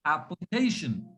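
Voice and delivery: "application" run together, light LI and stress on CA; sounds joined together. Shown as a demonstration. Teacher joins the pieces, smooth "application" stressed on CA. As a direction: glide through "application" to a stressed CA. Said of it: "if I join these sounds together".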